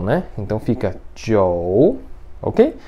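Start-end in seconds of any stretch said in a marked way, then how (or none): 1.2-2.0 "jiu" as "tchiou", dipping then rising; third tone. Shown as a demonstration. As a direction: sink low on "jiu", then swing up. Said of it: "e o terceiro tom".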